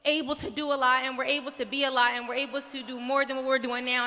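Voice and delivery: a passionate outburst at the mic; impassioned plea. Real, not acted. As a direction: plead with rising urgency, voice lifted.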